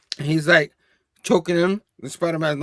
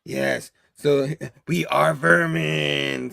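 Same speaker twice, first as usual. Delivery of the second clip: creepy vermin hiss; much slower than usual. Retold or imitated. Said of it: "they're like".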